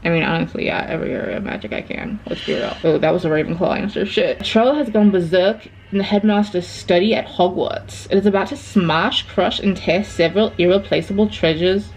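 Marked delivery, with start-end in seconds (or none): 4.4-11.9 reading aloud in a put-on British accent; measured, lightly assumed British accent. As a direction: read the quiz like a British storyteller. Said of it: "I don't know why I'm doing an accent".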